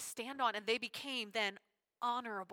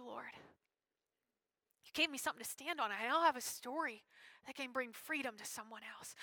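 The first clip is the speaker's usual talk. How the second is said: soft prayer; 6 dB quieter than usual. Acted. Voiced prayer of forgiven sinner.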